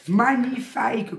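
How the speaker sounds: teasing copy of her Magnifique said slow and high; imitating a woman's magnifique. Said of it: "comme elle dirait".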